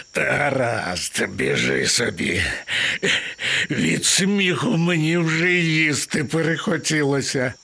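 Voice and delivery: lion dismissing the mouse after laughing; amused lion. Acted. (поблажливий лев після сміху)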